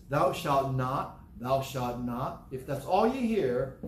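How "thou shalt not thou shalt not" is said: slow, stern preacher intoning rules; mock solemn commandment. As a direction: drag out each word like a grim sermon.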